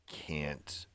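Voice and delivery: dragged out word by word; very slow, labored reluctance; retold weary dread. Retelling dread on waking up.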